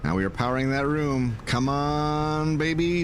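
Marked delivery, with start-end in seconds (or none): 1.4-3.0 higher, coaxing plea; pleading with the game. Real, not acted. Gamer begging the room to power up, coaxing plea. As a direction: coax the game like a lucky dice roll.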